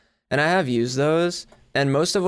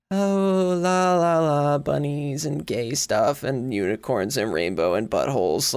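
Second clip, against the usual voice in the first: mock girly voice; 2 semitones higher than usual. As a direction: tease her own sweet girly sound. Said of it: "I listen to myself and I'm just like".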